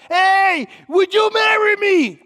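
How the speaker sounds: loud, high, excited shout; happy yelling. Retold or imitated. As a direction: imitate an overexcited man calling out. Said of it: "Out loud".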